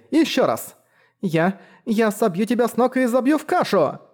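put-on a timid girl trying to sound fierce; clumsy mock shouting. A narrator's reading. Girl yelling at the straw dummy, clumsy mock anger. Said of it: "не привыкла кричать".

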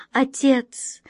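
terrified whispered call; frightened whisper. Acted. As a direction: whisper it in horror. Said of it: "С ужасом позвала Астрель".

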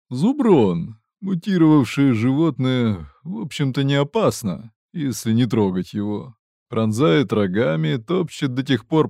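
lightly voiced gruff fighter; gruff mercenary. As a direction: explain it like a hardened soldier. Mercenary explains mutants.

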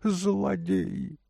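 high, drawn-out wail of outrage; lady's high-pitched outcry; crying out. A narrator's reading. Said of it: "кричала дама". (высокий протяжный крик дамы)

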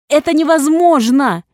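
screamed high and loud; inhuman scream. A narrator's reading. Heroine screaming at the nurse in denial. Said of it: "Нечеловечески заорала я".

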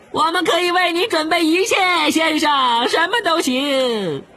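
high, squeaky servile voice; house-elf voice. Retold or imitated. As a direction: squeeze out a shrill eager elf. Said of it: "他憋出一种尖细刺耳的声音，模仿着家养小精灵". (尖细刺耳的小精灵腔)

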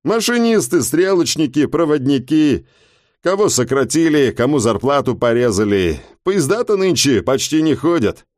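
a hint of a talkative driver; lightly voiced taxi driver. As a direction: tell the passenger the news. Driver explains strike.

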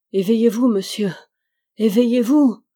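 loud, rising desperate shout; crying out. A narrator's reading. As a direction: shout to wake a sleeper. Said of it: "cria pour la troisième fois Jude".

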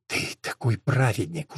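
tired, soft and slow, drained of fight; weary. A narrator's reading. Wife to husband, weary and quiet. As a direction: sigh it out, worn down by the quarrel. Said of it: "устало сказала она".

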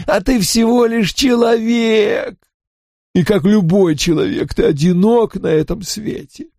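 high scornful shout; contemptuous shout. Acted. Spirit sneers at a mere man.

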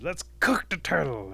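rallying wolf suggestion; wolf's eager proposal. A narrator's reading. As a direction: pitch the idea loudly to the pack.

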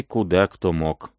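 ordinary delivery

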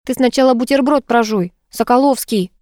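playfully grumpy order; grumbling. Acted. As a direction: chide him with a mild grumble. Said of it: "проворчала Зуфарова".

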